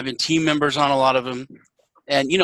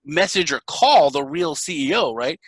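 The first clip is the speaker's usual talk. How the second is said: mocking taunt; 2 semitones higher than usual. Mocking the scammer who claims to be the CEO. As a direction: needle him, sure he can't win.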